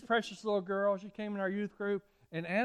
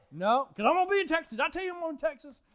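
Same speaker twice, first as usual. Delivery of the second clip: put-on higher, quick, girlish insistence; eager girl voice; 9 semitones higher, 4 dB louder, faster than usual. Pastor voicing Anna insisting she's going to Texas, eager. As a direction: rattle it off like an eager kid. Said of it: "And I'm like".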